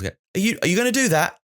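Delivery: put-on high but calmer voice for a child. Shown as a demonstration. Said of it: "So it's lower".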